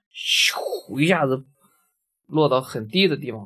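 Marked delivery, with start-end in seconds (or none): 0.1-1.5 slow whoosh. Shown as a demonstration. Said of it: "俯冲就是从高处".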